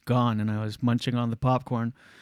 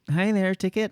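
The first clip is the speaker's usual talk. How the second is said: put-on slightly higher teenage clerk greeting; a hint of a teenage usher, pitched up; lightly voiced teen ticket-taker; 6 semitones higher than usual. Teen ticket-taker stopping a customer at the cinema, lightly voiced. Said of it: "sixteen-year-old zit-faced person is like".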